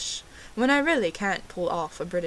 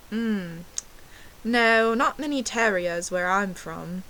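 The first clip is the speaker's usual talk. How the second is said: put-on British accent; slower than usual. Fake Brit dodging the terrier question, mock British accent. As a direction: bluff it in an imitation British accent. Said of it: "ordered my drink in a British accent".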